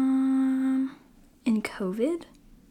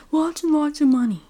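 joking; 5 semitones higher, 7 dB louder than usual. Pretend. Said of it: "Just kidding".

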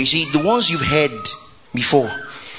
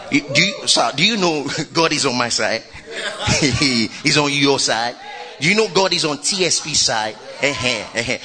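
laughing tease; 3 semitones lower than usual. Real, not acted. Teasing a congregant, laughing.

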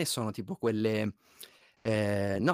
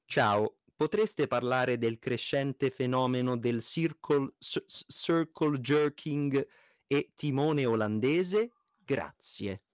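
lenta e scandita come un robot; voce robotica; much slower than usual. Pretend. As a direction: leggi come un vecchio sintetizzatore vocale. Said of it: "ve la leggo io con voce robotica". (voce da robot, lenta e meccanica)

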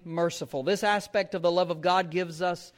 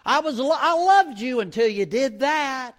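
a hint of a fickle, offended voice, raised; fickle God; 4 semitones higher, 3 dB louder than usual. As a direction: play a god whose love wavers, pitched up. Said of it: "He could decide right away".

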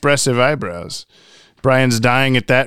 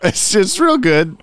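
squeaky ventriloquist dummy; 8 semitones higher, 3 dB louder than usual. Pretend. Answering the puppet in kind.

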